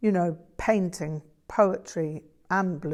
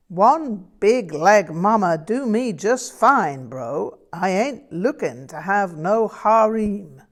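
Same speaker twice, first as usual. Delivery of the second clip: put-on Southern blues accent; 3 semitones higher, 6 dB louder than usual. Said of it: "in as close as I could make it to Frank's accent".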